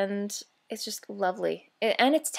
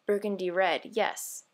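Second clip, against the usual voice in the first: vampire mindset. Retold or imitated. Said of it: "in the vampire type of mindset".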